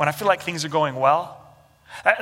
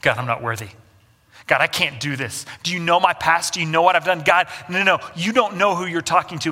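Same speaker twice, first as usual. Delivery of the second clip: proud protest. Retold or imitated. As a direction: argue your own unworthiness insistently. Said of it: "What we see in Moses is actually pride".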